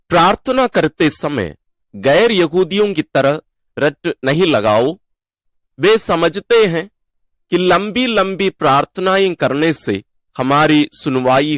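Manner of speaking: measured Gospel proclamation with pauses between phrases; scripture reading. Real, not acted. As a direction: read it out solemnly, phrase by phrase. Reads the Gospel passage aloud. (ठहर-ठहरकर सुसमाचार पाठ)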